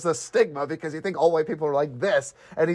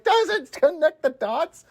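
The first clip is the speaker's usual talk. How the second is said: mock slow dumbfounded; 12 semitones higher, much slower than usual. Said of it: "And he's like".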